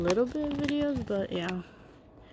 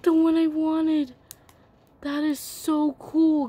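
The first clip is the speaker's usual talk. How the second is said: louder, thrilled announcement; excited; 5 semitones higher, 5 dB louder than usual. Real, not acted. Girl telling viewers she got her toy, excited. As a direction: tell the viewers out loud, delighted. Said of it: "I'm so excited".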